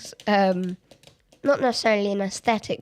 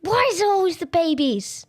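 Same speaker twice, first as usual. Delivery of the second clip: exasperated; 5 semitones higher than usual. Real, not acted. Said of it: "I'm furious".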